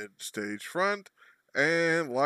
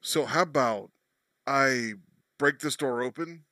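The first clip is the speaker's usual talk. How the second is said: robot voice; 6 dB louder than usual. Real, not acted. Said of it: "that's not better".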